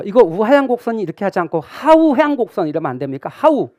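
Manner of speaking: lightly imitating an insistent questioner; 따지는 질문자 흉내. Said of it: "이렇게 묻는 분이 있어요". (살짝 목소리를 높여 따져 묻는 수강생 흉내)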